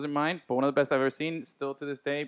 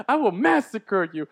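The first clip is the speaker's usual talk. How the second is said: Grossman threat; 3 semitones higher, slower than usual. Retold or imitated. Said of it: "he goes".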